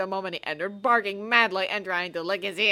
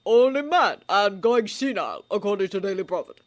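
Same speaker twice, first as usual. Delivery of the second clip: calm; 3 semitones higher, 9 dB louder than usual. A narrator's reading. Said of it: "said Professor Dumbledore calmly".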